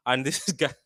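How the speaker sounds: a real laugh breaking into the words. Real, not acted. Vlogger laughing at Phillips's bad luck, laughing. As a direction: chuckle through this guy. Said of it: "I don't know why I'm laughing".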